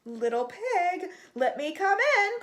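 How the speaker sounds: the shark calls at the door, growing upset. A narrator's reading. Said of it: "called the magic shark, growing upset".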